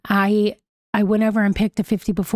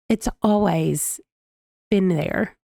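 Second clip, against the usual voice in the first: tender quote; slower than usual. Retold or imitated. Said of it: "When Richard looks at Hester in her face and says".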